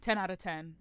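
dry, sarcastic praise. Real, not acted. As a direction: say it dripping with irony. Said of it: "That is sarcasm, by the way".

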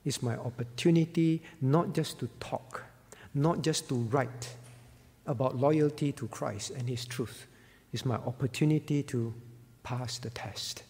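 hushed, pleading martyr, almost a whisper; pleading softly. Acted. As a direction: beg quietly not to lose the chance. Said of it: "He pleaded".

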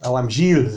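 put-on French-accented "Gilles" with the S silent; Gilles without S. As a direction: say "Gilles" as "zheel". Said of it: "Probably wouldn't add on the S".

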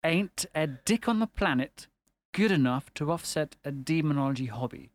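spaced-out careful recital; deliberate repeat. Shown as a demonstration. Repeats quote on request, slower.

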